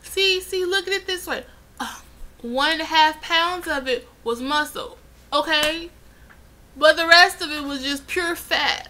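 a hint of a nurse calming a patient; mock nurse voice. Nurse calming an upset patient, lightly voiced. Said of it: "She's like".

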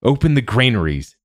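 new king issuing a ringing order; royal command. A narrator's reading. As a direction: command it to the whole court. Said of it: "he commanded".

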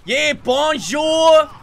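loud, drawn-out fake French accent. Shown as a demonstration. Gamer showing the others his French, in a slow hammed-up French accent. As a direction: show off a French accent, very slowly. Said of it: "hear me do a French accent".

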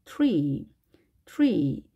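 트리 as English tree, onset halfway to "ch"; fuse T and R in 트리; between T and CH. Shown as a demonstration. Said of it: "트도 아닌 것이".

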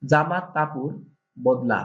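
"জামা কাপড় বদলা" said in Barisal dialect. Shown as a demonstration. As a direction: read it the Barisal way. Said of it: "বরিশালের ভাষা বলবো". (বরিশালের আঞ্চলিক উচ্চারণে)

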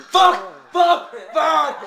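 three short, high, loud curses; rage shouting. Pretend. Gamer cursing at the game, rage shouting. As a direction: fire the word off in separate bursts.

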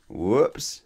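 muffled, head in a basket. Acted. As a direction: speak as if through cloth. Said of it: "said a muffled voice".

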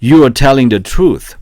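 very slow and loud, every word spaced out; teacher reading a drill sentence slowly and clearly; slow model reading. Shown as a demonstration. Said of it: "제 암기 영상을 활용해 보세요".

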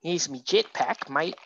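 light, self-mocking Australian accent; a quick jokey Aussie voice as the superhero. Painter jokes as the Australian hero in a mock Australian accent. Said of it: "My Australian accent is terrible".

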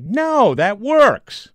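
high, hammed-up voice of a president brushing a joke aside; mock president voice. Host pretending to be the president rejecting a joke, hammed-up high voice. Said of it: "in a conversation with the president and saying, like".

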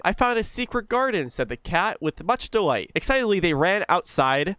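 put-on lively read-aloud for a child; storybook reading. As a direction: read it like a bedtime tale. Reads in-game bedtime story.

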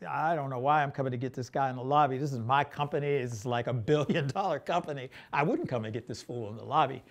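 quick, quiet grumble; mock grumbling under the breath, rushed; grumbling complaint. Director retelling the actor's objection on set, grumbling.

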